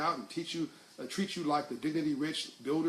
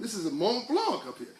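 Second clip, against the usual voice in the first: lightly imitated French accent, pitched higher; French ambassador; 6 semitones higher, 4 dB louder than usual. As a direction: play the French ambassador showing off a landmark. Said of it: "was a French ambassador".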